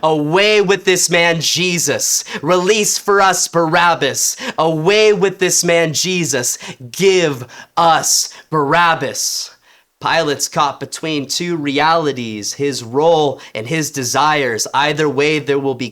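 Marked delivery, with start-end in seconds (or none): 0.0-9.5 yelling. Acted. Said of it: "I yell toward Pilate's face".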